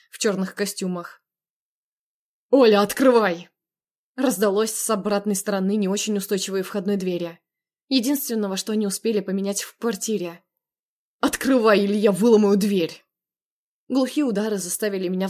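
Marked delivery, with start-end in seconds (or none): 2.5-3.5 demanding shout. Acted. Man pounding at the door. 11.2-13.0 loud, menacing demand; angry threat. Acted. Andrey threatening through the door, angry shout.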